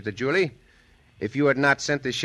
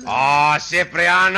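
calling out; 6 dB louder, slower than usual. Acted. Riding off, calling out.

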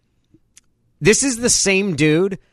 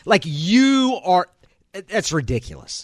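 dismissive mockery; 4 semitones higher, slower than usual. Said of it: "shake your head dismissively".

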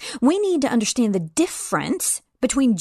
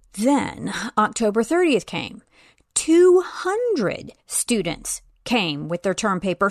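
ordinary talk

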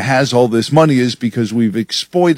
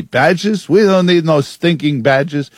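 a hammed-up old-movie bandit accent, pitched higher; Eli Wallach bandit accent; 4 semitones higher, slower than usual. Reading a listener's joke headline in a mock movie-bandit accent. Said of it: "Eli Wallach's accent".

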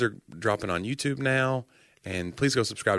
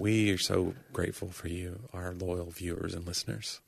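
alien voice; 7 dB quieter than usual. Acted. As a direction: speak like a gentle alien. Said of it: "You sounded like the aliens on".

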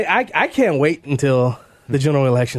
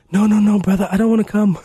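higher-pitched, badly faked Nigerian accent; fake Nigerian accent; 5 semitones higher than usual. Host quoting his guest's phone refusal, fake Nigerian accent. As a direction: imitate a Nigerian man, accent not quite landing. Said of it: "my fake accent, I can't do it".

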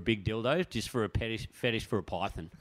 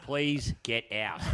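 drawn-out, half-laughing please get out; mock-polite slow request from the shop owner; much slower than usual. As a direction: stretch it out slowly like a weary shopkeeper. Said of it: "Come on, Capo".

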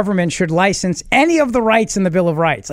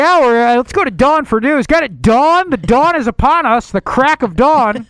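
hammy host voice; 5 semitones higher than usual. Acted. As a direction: ham up the pun. Hammy radio punning.

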